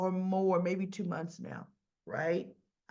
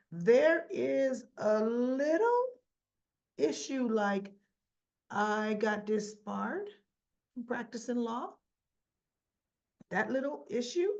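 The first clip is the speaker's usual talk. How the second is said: wry understatement; 3 semitones higher than usual. Retold or imitated. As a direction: play down the disbarment with a knowing rise. Alexis understating her disbarment.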